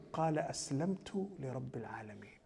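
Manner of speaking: quick, unvoiced recital of the verse; hushed recital of the verse; whispered recitation. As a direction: breathe the verse softly and fast. Reciting Ibrahim's answer again.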